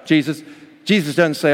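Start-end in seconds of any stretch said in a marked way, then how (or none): 0.0-0.4 high, loud string of no; frantic refusal. Acted. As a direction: refuse over and over in alarm. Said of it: "When Peter said".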